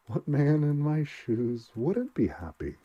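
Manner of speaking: slow, loud, bitter sarcastic question; bitter sarcasm. A narrator's reading. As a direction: throw it back at him with scorn. Welling bitter, mocking the doctor.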